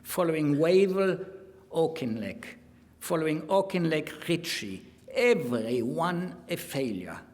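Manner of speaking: emphatic mock German accent, punching key words; declamatory quotation in a German accent. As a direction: read the diary as a put-on German. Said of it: "speaking with a mock German accent".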